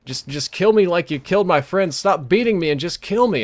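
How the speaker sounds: imitated plea, pitch climbing partway through; begging. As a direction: beg for it to end, mildly acted. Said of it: "She's just begging".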